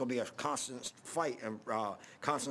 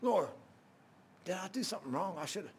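anguished plea; 4 semitones higher, 3 dB quieter than usual. Retold or imitated. Preacher's anguished prayer retold.

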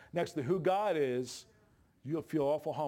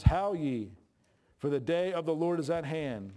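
louder proclaiming read of the verse; scripture reading; 3 dB louder than usual. Acted. Preacher reading Isaiah aloud to the congregation. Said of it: "It says".

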